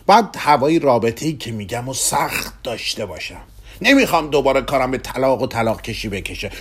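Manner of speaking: a middle-aged man begging for romance; Kugelmass, restless, pleading. Acted.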